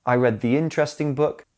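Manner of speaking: "the" said "thee" before "interesting"; long ee in "the", linking into "interesting"; "thee" before vowel. Shown as a demonstration. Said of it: "listen ... so you can hear the difference".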